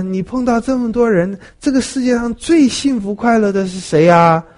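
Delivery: high, eager king's question voice; rich king asks. Retold or imitated. Rich king eagerly asking Solon, high and bright.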